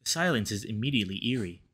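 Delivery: reading the story's lines, voicing a tense couple's quarrel; game dialogue read aloud. Player voicing Devin and Cameron's quarrel, story reading. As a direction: narrate and voice each lover in turn. Reads visual novel text aloud.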